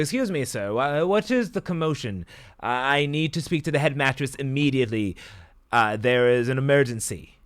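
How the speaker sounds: high, loud, flustered official; urgent demand. Acted. Faustus demands answers at the guard booth.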